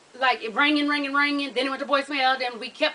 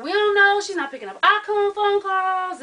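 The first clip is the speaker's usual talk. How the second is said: retold family reply; 5 semitones higher than usual. Family answering her, acted out.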